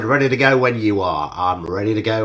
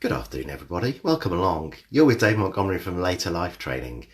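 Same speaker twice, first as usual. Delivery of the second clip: slower intro; 5 semitones lower than usual. Shown as a demonstration. Instructor's welcome redone slower and calmer. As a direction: take a breath and say it again slower. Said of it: "If you'd like me to say that slower".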